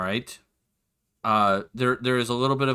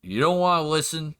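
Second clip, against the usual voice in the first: weary sigh. Acted. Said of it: "He'll sigh and just go".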